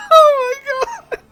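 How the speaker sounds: high, loud, tearful laughing voice; laugh-crying. Real, not acted. Reacting to the fan fiction, crying with laughter. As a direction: squeak it out through tears of laughter. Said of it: "I'm fucking crying".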